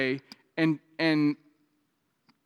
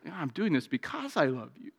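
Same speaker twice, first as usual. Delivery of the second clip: gentle parent; 5 dB quieter than usual. Retold or imitated. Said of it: "And the parent says".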